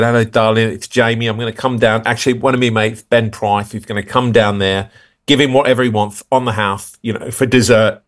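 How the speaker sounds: put-on light chirpy London accent, matey; breezy prank call as a celebrity chef, lightly voiced; Jamie Oliver. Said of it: "pretending I was him".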